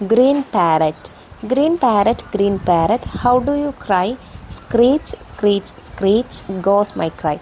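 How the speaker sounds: put-on lightly sing-song children's poem reading; poem recitation. Shown as a demonstration. Teacher reading a parrot poem to pupils, gentle recitation. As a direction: recite it line by line, lilting slightly. Reads a short poem aloud.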